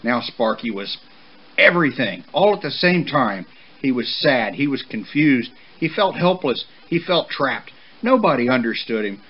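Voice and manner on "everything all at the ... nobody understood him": emphatic narration. A narrator's reading. Narrator builds up the colt's turmoil.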